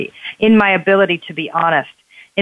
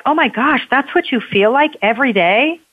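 pitched-up, astonished questions; friend's dawning shock, higher with each question; sudden realization; 5 semitones higher than usual. Retold or imitated. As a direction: retell the friend finally getting it, voice climbing higher. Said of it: "she was like".

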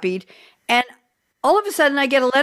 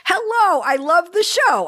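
imitating elderly mother; 8 semitones higher than usual. Mother calling after the show.

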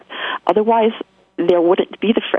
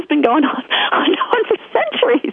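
mock indignation; 12 semitones higher than usual. Mock outrage at a centuries-long pattern.

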